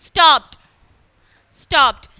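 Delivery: loud drill of സ്റ്റോപ്ഡ് as "stopt". Shown as a demonstration. Teacher shows the way to pronounce it, സ്റ്റോപ്ഡ് with a T ending. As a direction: hit each സ്റ്റോപ്ഡ് hard, ending on a T. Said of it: "This is the way to pronounce".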